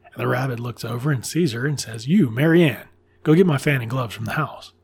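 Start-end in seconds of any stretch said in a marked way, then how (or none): 2.1-4.7 imitating a bossy master giving orders; forceful order. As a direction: order a servant about, lightly acted. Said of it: "he says it so forcefully".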